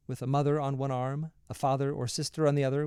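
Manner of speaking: usual speaking voice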